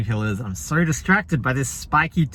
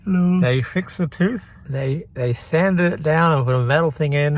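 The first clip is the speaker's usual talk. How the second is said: numb from the dentist. Real, not acted. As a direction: still numb from anesthetic. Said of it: "this entire side of my face is numb".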